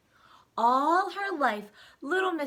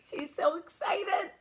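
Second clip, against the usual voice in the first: laughing; 9 semitones higher, 5 dB louder than usual. Real, not acted. Narrator laughs with delight.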